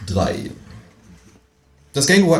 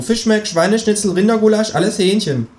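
much higher, cheeky kangaroo; 13 semitones higher, 4 dB louder than usual. Acted. Kangaroo reassuring the narrator, high and cheeky. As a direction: pitch way up for the brash kangaroo.

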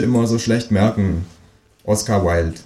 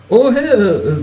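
much higher, startled kangaroo oh; surprised kangaroo; 13 semitones higher, 4 dB louder than usual. Acted. Kangaroo surprised the door opens so fast, much higher. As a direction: caught off guard as the kangaroo. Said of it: "sagt das Känguru überrascht".

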